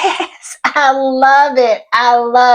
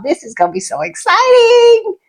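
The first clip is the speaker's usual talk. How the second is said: much higher, near crying with joy; tearful excitement; 11 semitones higher than usual. Real, not acted. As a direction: squeal it through happy tears. Overwhelmed after fan's VIP news.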